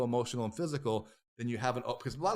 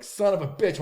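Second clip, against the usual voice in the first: retold curse; 7 semitones higher, 7 dB louder than usual. Retold curse while flying off the cliff.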